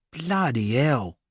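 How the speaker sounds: slow shocked East London exclamation; exclaimed. A narrator's reading. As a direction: gasp it out at the sight of blood. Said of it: "Hooligan exclaimed".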